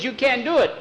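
put-on very high, loud boyish cry; desperate protest. Boy knocking the gun away, high desperate cry. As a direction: cry out to stop the shot. Boy stops man shooting dog.

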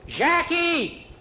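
hoher, lauter Ruf über die Straße; freudiger Ruf. Acted. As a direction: ruf ihn freudig von weitem. Juan calls across the street.

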